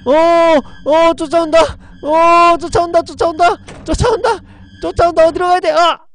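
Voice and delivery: high, loud panicked screaming; being chased. Real, not acted. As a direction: scream while running for your life. Fleeing the ghost in game. (쫓기며 겁에 질린 비명)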